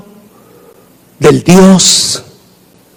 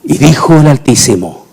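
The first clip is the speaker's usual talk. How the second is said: ordinary delivery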